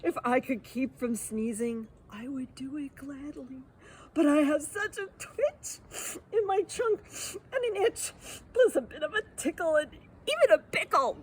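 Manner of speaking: elephant voice on the verge of tears; sniffly elephant. Acted. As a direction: whine it like a ticklish elephant. Elephant's sneezy lament.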